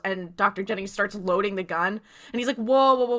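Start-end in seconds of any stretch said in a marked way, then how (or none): 2.6-3.2 acted alarmed halt. Clerk halting man loading a gun.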